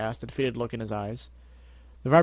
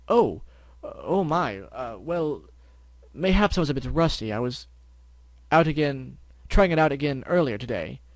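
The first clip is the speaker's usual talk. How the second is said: flustered; 5 dB louder than usual. Acted. Elusive flustered, caught out.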